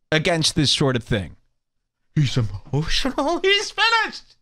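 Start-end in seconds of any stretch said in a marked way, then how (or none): 2.1-4.3 mock quote. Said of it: "they would say".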